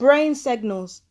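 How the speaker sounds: slow, scornful repeat of the words; mocking echo. Real, not acted. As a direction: echo it back with disdain. Mocking repeat of clip phrase.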